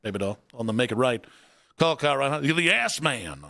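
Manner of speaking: low, quick late-night local DJ. Acted. Host signs off the caller in a lightly done DJ voice. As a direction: croon it like a small-town radio jock. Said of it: "That was local D J".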